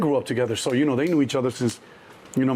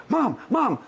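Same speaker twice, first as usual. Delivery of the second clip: high panicked call; 11 semitones higher than usual. Retold or imitated. Kid calling mom during fight.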